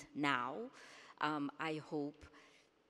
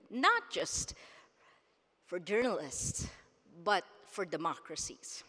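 emotional. Real, not acted. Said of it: "I still get emotional every time I think about this".

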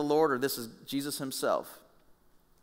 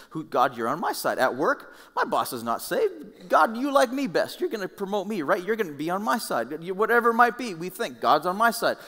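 higher, louder mocking believer; mock whiny believer; 7 semitones higher, 4 dB louder than usual. The preacher mocks believers who claim God likes them best. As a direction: whine like a spoiled favorite.

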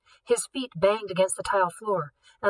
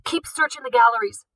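louder commanding shout; yelled order; 4 semitones higher, 5 dB louder than usual. Acted. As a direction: bark the order at the guards. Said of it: "the director yelled".

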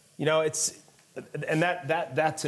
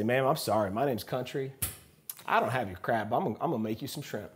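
put-on Southern accent. Country apologizing to a diner about the crab, Southern accent. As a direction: play a polite Southern charmer. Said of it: "with this thick Southern accent".

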